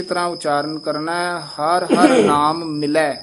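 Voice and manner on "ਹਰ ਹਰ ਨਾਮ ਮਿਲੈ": slow ਹਰ ਹਰ ਨਾਮ ਮਿਲੈ with a halt; slow recitation halting at ਮਿਲੈ; stop after ਮਿਲੈ. Shown as a demonstration. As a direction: pause at ਮਿਲੈ. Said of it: "ਇੱਥੇ ਠਮਕ ਲਾ ਦੇਣੀ ਹੈ".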